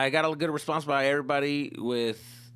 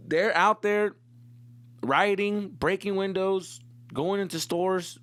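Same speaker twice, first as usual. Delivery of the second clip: mock outrage; 6 semitones higher, 3 dB louder, slower than usual. Mock outrage about rioters.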